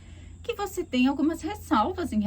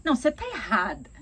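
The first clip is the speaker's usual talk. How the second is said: annoyed; 3 dB louder, faster than usual. Shown as a demonstration. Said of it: "você tá bravo e você não concorda".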